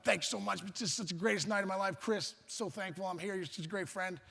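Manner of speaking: softening, tender gratitude; heartfelt thanks. Retold or imitated. Kid thanks his friend at bedtime, soft and sincere.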